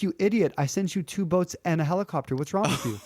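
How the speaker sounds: mildly exasperated, starting high and settling down; lightly acted telling-off for a punchline; exasperated scolding. God scolds the dead man at the gates, exasperated.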